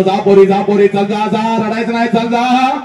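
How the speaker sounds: urging farewell rising in pitch; mock-cheerful send-off. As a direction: send the daughter off insistently, voice climbing. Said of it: "हसत हसत तुला म्हणतो".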